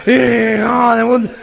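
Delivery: cántico nasal y arrastrado; multitud de gangosos. Acted. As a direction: corea despacio como un gangoso imitado. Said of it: "todos como cinco mil gangosos". (gangosos coreando con voz nasal)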